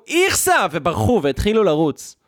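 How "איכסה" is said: put-on high shrieked "איכסה" of disgusted girls; mock shriek. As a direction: squeal "איכסה" like startled girls. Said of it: "ממש צעקו". (צווחת גועל מחוקה)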